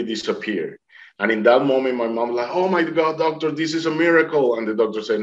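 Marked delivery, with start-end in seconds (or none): 2.6-4.6 higher-pitched, imitating an amazed mother; mom's amazed exclamation. Mom to the doctor at the clear scan, amazed. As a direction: retell her cry of wonder, pitched up.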